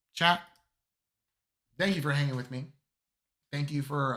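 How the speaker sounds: raspy voice. Real, not acted. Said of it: "my still raspy voice from my cold".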